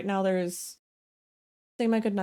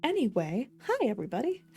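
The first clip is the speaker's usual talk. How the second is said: light Southern belle lilt, a bit higher on the greeting; 4 semitones higher than usual. Real, not acted. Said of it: "I said that like a Southern belle".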